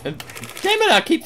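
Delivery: loud high exclamation; real exasperated outburst. Real, not acted. Gamer realising they forgot the gender check, loud. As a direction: catch your own mistake.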